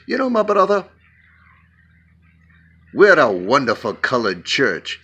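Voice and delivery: a hint of an African pastor's accent; friendly African pastor, a light African accent. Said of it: "Do you like my accent".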